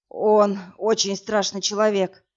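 ordinary delivery

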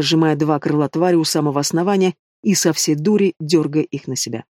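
usual speaking voice

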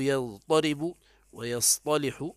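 slow يضطرب ويصطلح with heavy ط in each; substituted present forms. Shown as a demonstration. Teacher shows the conjugation, يضطرب ويصطلح with heavy ط. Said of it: "تقول".

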